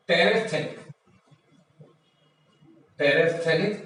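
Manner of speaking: "terephthalic" with a clear f before th; PH sounded. Shown as a demonstration. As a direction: say "terephthalic" as te-ref-THAL-ik. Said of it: "इनमें पीएच का sound आएगा". ("terephthalic" में फ़ की आवाज़ साफ़)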